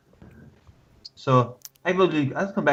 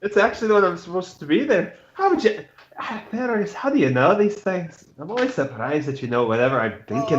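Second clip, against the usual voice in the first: surprised Scottish brogue that jumps higher; Scottish accent; 3 semitones higher than usual. Acted. Knight wondering how Fergus knows, Scottish accent. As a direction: marvel at your friend in a Scottish lilt. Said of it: "Can't handle your fucking accents".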